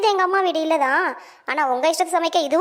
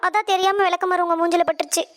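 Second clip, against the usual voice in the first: high-pitched, put-on alarm; over-innocent apology, voice pitched up; feigned apology; 4 semitones higher than usual. Feigned apology after hitting mother-in-law. (உயர்ந்த குரலில் போலி மன்னிப்பு)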